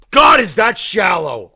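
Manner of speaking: drawn-out shocked shout; slow outraged shout. Real, not acted. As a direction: stretch it out, appalled and loud. Outraged reaction.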